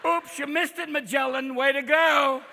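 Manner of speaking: put-on cranky, sing-song elderly GPS voice; old GPS. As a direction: nag the driver like an aggrieved oldster. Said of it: "maybe you should have the old G P S".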